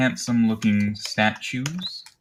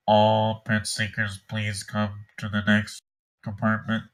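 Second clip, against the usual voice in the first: announcer voice. Acted. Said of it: "it sounds a lot less canned".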